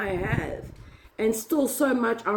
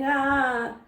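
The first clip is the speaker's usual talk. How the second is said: mock devil laugh; 4 semitones higher than usual. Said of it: "he's laughing and pointing".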